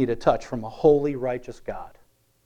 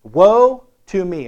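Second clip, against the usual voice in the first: slow, loud, higher cry of woe; anguished cry; 4 semitones higher, 9 dB louder, slower than usual. Retold or imitated. Preacher voicing Isaiah crying out in awe, loud and slow. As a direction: wail it slowly like a man undone.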